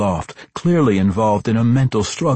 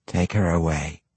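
commanding matron. A narrator's reading. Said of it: "she instructed Anzarel".

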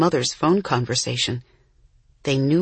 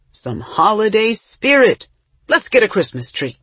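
cheerful; 6 semitones higher, 5 dB louder than usual. A narrator's reading. Papa cheering up the family.

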